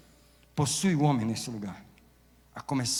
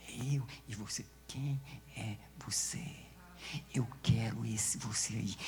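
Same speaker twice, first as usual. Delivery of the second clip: hushed whisper; 3 semitones lower, 8 dB quieter than usual. Real, not acted. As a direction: drop to a breathy hush, close and intimate. Intimate whispered appeal to listener.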